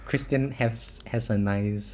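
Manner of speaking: normal talking voice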